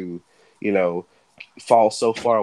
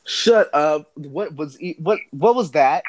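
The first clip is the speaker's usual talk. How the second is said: surprised; 5 semitones higher, 4 dB louder than usual. Real, not acted. Reacting to friend's robot impression.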